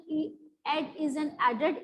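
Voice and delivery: slow, lightly imitated German accent. Teacher voicing the German shoemaker's reply, slow mild German accent. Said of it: "he replied in a very German accent".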